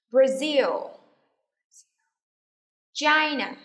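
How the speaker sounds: loud, clearly projected single words; teacher's repeat-after-me delivery; model for repetition. Shown as a demonstration. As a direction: drill each word with a firm fall. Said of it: "listen and repeat after me".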